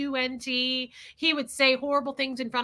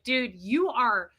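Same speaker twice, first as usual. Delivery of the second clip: exasperated; 5 dB louder, much slower than usual. Retold or imitated. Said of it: "I was like".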